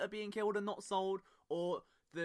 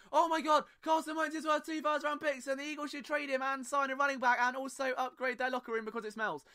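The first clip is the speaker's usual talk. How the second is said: mock radio panic; 5 semitones higher than usual. Mocking American radio hosts, high and hammed-up panic. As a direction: ham up a sensationalist radio host. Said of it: "it would sound like the sky is falling down".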